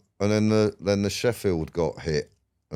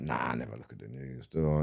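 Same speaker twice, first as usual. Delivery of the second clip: low, much softer offhand mumble; bored young self; 7 semitones lower, 9 dB quieter than usual. Retold or imitated. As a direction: shrug it off like a disinterested lad. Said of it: "And I went".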